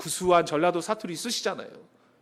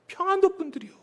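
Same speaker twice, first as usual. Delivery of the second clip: raised punchline; 9 semitones higher, 3 dB quieter than usual. Shown as a demonstration. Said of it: "어떤 분이 읽고 은혜 받겠습니까?".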